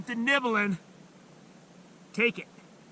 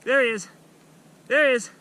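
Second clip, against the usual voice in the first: excited; 4 dB louder, faster than usual. Real, not acted. Fish surfacing.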